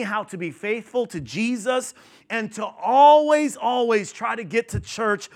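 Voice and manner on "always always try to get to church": "always" shot up high and loud, then repeated; stress on always. Real, not acted. Pastor urging the church to always come, stressing always. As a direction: punch the first "always" hard and high.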